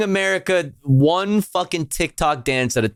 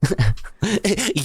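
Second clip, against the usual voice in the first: laughing mock y'all; much slower than usual. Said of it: "Y'all, you can't make this stuff up".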